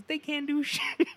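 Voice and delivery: high, loud and slow through laughter; imitated rant breaking into laughter; laughing punchline. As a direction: crack up mid-sentence. Retelling comedian's punchline.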